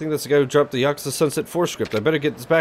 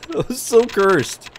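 higher, louder and slow, stretching every word; drawn-out disgust; 7 semitones higher, 4 dB louder, much slower than usual. Acted. Streamer repeating his reaction to a cursed picture, drawn out high and loud. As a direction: savour the horror, drag it out.

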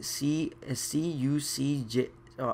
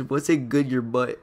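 imitating Siri; 5 dB louder than usual. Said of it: "and it says".

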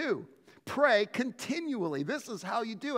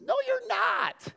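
emphatic retort; 14 semitones higher than usual. Real, not acted. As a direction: shut that excuse down hard. Pastor rebuts imagined pessimist.

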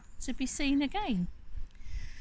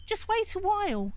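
pleading goat; 11 semitones higher than usual. Acted.

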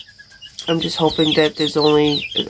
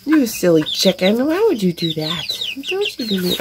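fond scolding; 4 semitones higher than usual. Real, not acted. Scolding chicken fondly.

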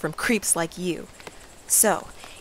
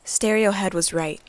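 lightly voiced storybook narration; story narration; 4 dB louder than usual. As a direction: paint the scene like a fairy tale. Narrates the scene over music.

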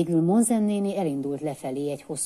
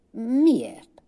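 whisper; 9 semitones higher, 7 dB louder than usual. A narrator's reading. Unvoiced whispered question.

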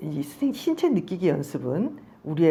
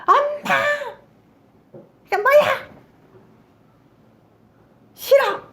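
put-on shrill high child yelling, much louder; a child finally shrieking at the ignoring mother; screaming child; 6 dB louder than usual. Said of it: "아이는 소리를 지를 필요가 없잖아요". (무시하는 엄마에게 소리 지르는 아이, 높고 큰 비명)

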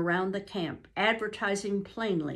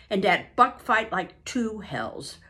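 put-on French-Canadian accent; 4 dB louder than usual. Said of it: "was Francois' answer".

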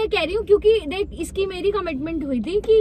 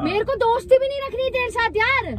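high, upset outburst; shouting; 4 semitones higher than usual. Real, not acted. Woman ending the friendship as she leaves, shouting. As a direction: protest in a raised pitch. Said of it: "तू कान पे क्यों चिल्ला रही है?".

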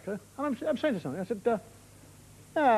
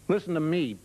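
menacing Scot; 7 semitones lower than usual. Acted. A Scot warns someone off, menacing. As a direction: lower the voice and warn them. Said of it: "being aggressive or belligerent".

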